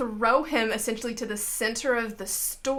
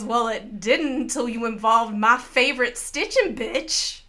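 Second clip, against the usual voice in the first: lightly voiced feisty shopkeeper; a touch of sass from Mabel; Mabel's retort; 3 dB louder than usual. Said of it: "And she goes".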